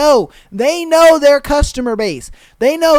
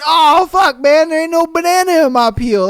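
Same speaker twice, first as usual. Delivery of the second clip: higher, louder, confused stoner whine; mock dazed stoner; 6 semitones higher, 4 dB louder than usual. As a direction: play the baffled high guy.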